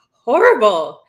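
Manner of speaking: a horrified whispered word; shocked whisper. Real, not acted. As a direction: breathe it out as a whisper. Reacting in shock to the clip.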